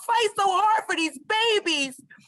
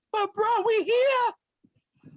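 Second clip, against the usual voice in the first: crying; much slower than usual. Real, not acted. Adoptee consoling fellow foster youth.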